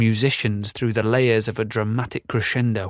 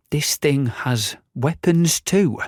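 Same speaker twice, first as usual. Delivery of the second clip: amazed; 4 semitones higher, slower than usual. Acted. Roger amazed, slow.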